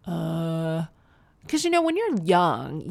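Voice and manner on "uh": drawn-out, dumbfounded "uh"; stunned "uh". Acted. Left out of the invitation, stunned drawn-out "uh". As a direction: let out a long, blank "uh". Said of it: "I just sat there like".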